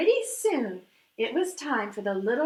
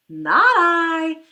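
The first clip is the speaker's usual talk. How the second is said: a loud, blunt "no" from the duck; loud refusal; 9 dB louder than usual. Acted. Duck refusing to help the little red hen, loud blunt refusal. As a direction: bark it out, flat refusal.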